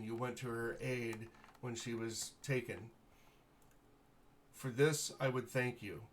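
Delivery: lightly voiced noble lord, grateful and formal; gracious baron. Baron thanking the heroes for rescuing his daughter, lightly voiced noble. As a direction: thank them with stately warmth.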